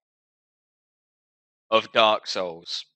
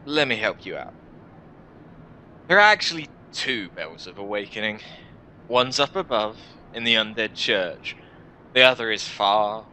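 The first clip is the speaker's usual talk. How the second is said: lightly voiced, sardonic guide; jaded warrior. Warrior tells a newcomer about the bells, jaded and sardonic. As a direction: explain it with weary mock helpfulness.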